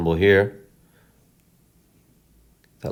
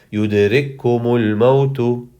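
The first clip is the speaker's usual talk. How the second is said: fast, starting back from the earlier word; quick restart; 3 semitones higher, much faster than usual. Shown as a demonstration. Teacher demonstrates going back after a breath, briskly. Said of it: "I take my breath and I go back".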